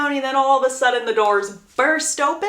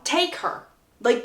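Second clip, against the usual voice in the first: ordinary delivery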